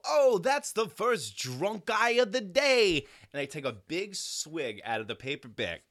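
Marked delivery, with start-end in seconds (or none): 0.0-3.0 high, slow, mocking drawl; a retold smug joke; cocky quip. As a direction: tease the stranger, amused.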